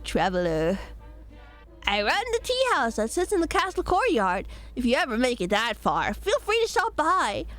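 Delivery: sly, lightly voiced shopkeeper cat; cat merchant voice. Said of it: "Good cat merchant voice".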